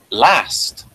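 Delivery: "last" halfway between lost and last; theatre vowel. Shown as a demonstration. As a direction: say "last" with a broad, open vowel. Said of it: "the way Lorne Greene said last".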